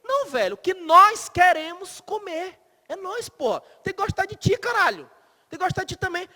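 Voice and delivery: high, loud, irritated outburst; exasperated retort. Acted. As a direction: snap back at the partner, fed up. Acted retort to a partner.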